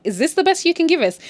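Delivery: high-pitched disapproving question; mock complaint. They challenge Joyce on her effort, mock disapproval. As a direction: imitate dissatisfied critics.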